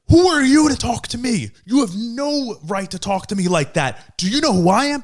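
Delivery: mock spoiled driver demanding respect; indignant entitled girl. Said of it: "she was like".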